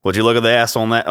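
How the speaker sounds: quick, put-on Australian voice; trying out an Aussie accent; movie line in Australian. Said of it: "get in the Australian voice".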